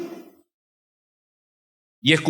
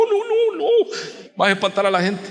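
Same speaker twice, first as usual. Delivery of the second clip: catching himself; 7 semitones higher than usual. Retold or imitated.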